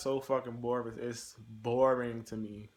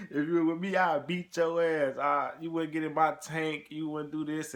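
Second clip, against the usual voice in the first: retold threat; 5 semitones higher, 4 dB louder than usual. Combat soldier threatening the smart-ass recruit, loud and high. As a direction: bark it like a veteran threatening a kid. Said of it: "they were like".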